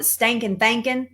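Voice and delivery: put-on Southern accent. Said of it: "deep, deep Southern accent".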